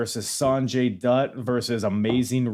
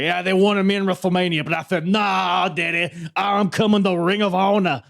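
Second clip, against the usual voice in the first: Dusty impression; 8 semitones higher, 4 dB louder than usual. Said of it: "He was like".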